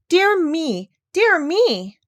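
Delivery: high, loud worried fussing; fretting doctor. Acted. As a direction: wring your hands in dismay. Ship sinking.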